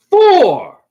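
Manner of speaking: loud, high golf-course holler; warning call. Retold or imitated. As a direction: call it out like "timber". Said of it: "like timber".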